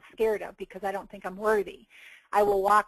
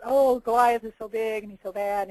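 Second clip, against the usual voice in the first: louder, hammed-up alarm; mock freaking out; 5 dB louder than usual. Frightened people talking about the giant Goliath, mock alarm. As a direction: play a panicking onlooker, lightly exaggerated. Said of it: "Everybody's freaking out".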